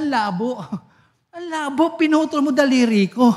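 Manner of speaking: high, half-laughing protest; laughing complaint. Acted. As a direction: whine it through a laugh like an injured friend. Friend complains about cut finger. (tumatawang reklamo ng naputulan ng daliri)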